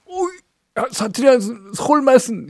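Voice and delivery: high, lightly voiced awe at Seoul speech; impressed dialect speaker. Dialect speakers marveling at a Seoul chatter, mild mock awe. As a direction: mimic a wide-eyed admirer, lightly. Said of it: "사투리 쓰시는 분들은".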